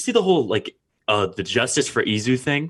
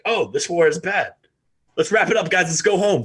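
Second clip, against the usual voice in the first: mock rebel fighter; 6 semitones higher than usual. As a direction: play a fighter giving up. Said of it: "rebel fighters are gonna be like".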